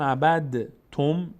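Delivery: عبد تم said "abad-tum" with a separate d; heavy dal pronounced. Shown as a demonstration. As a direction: voice the d in عبد before تم. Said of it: "یک مقداری سنگینه برای زبان".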